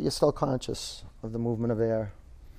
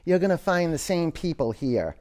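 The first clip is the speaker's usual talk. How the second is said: higher and fuller, a warm promise; bright verdict; 5 semitones higher than usual. Acted. Wise man promises the happy traveler, higher and bright. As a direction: lift it like good news.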